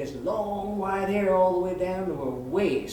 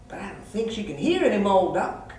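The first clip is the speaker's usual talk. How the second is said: lightly voiced backwoods pet owner; a touch of the anxious country client; worried cat owner; 3 semitones higher than usual. Billy Joe repeats his fear to the vet, mildly worried. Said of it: "he gives me this worried look".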